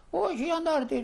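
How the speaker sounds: retold frantic protest, high and loud; protesting cry. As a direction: cry out the denial, pleading innocence. Father denying being a partisan.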